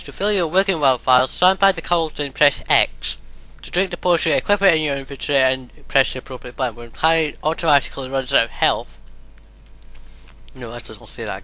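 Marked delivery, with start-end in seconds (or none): 0.0-9.0 reading instructions aloud. Acted. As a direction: read the tutorial text out. Reads on-screen game instructions.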